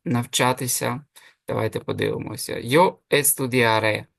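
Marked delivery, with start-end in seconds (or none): 3.1-4.1 estudiaré drawn out slowly, stressed on the final é. Shown as a demonstration. Spanish teacher shows a future ending, stress on the é of estudiaré. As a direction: say estudiaré slowly, landing on the last é. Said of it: "Закінчення е під наголосом".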